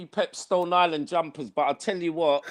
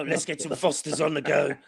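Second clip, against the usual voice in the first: lightly mocked Australian manager; a hint of a downbeat Aussie coach; Ange; 3 semitones lower, 4 dB louder than usual. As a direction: imitate the coach, building to a loud barbie. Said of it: "This is the same voice".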